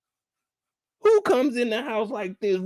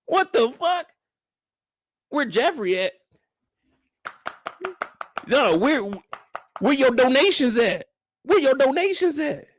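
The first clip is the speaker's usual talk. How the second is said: much higher fake-sweet voice; mocking Aunt Viv; 6 semitones higher than usual. Aunt Viv greeting guests while hunting for Jeffrey, much higher. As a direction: gush while scanning for Jeffrey. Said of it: "She gonna be looking around".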